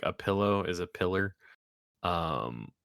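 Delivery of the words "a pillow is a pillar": "pillar" said for pillow, with an R ending; family mispronunciation. Shown as a demonstration. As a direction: show "pillow" turning into "pillar". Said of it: "problems pronouncing words like".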